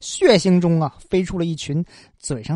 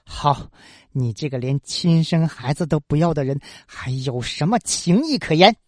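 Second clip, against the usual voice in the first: bitter scornful laugh; 4 semitones lower than usual. Acted. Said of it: "笑道".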